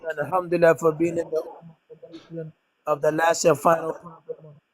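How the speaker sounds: echoey. Real, not acted. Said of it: "you sound a bit echoey".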